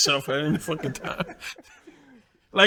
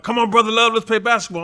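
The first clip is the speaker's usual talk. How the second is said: imitating Johnny begging; 6 semitones higher than usual. Johnny voiced pleading to play.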